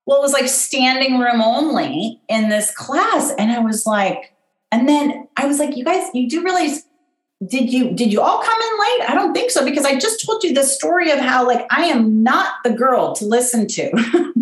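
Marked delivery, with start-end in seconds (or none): 5.8-14.3 high-pitched, baffled retelling; acted bewilderment, higher voice; incredulous. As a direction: question the crowd in mock disbelief, pitched up. Retelling her disbelief at packed class.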